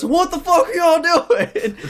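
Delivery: high, drawn-out mock yell with laughter; retold yelling. Angry dad yelling from the front porch, mock shout. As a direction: yell it slowly, hammed-up outrage. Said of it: "yelling at us".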